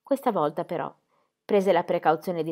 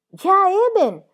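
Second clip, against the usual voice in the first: much higher, louder shrill repeat; higher-pitched; 13 semitones higher, 10 dB louder, much slower than usual. A narrator's reading. Midwife repeating her agreement in a higher tone. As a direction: squeak it out even higher. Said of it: "ripeté Frau Dosch in tono più acuto".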